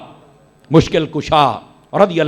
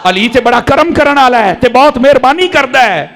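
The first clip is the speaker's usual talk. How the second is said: servant's fond reply; 6 semitones higher than usual. Retold or imitated. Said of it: "انہیں آکھیا".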